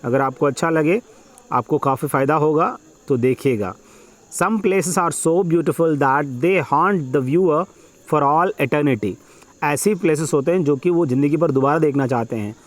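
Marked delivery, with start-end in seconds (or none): 4.4-9.1 measured, phrase-by-phrase passage reading; dictation reading. Acted. Teacher dictating an exam passage to students, measured dictation. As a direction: read it out slowly in short chunks with pauses.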